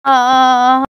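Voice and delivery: low acted groan of pain; drawn-out "aah" of pain. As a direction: moan from a bad bellyache. Groans from swollen, painful stomach.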